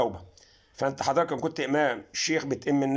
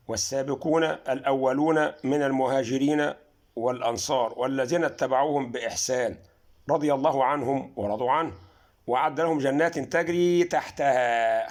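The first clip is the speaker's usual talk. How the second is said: Quran recitation. Shown as a demonstration. Reciting Quran verse 9:100.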